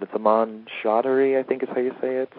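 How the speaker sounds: unsure attempt at a name; tentative. Real, not acted. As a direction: hesitantly venture the pronunciation. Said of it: "he said tentatively".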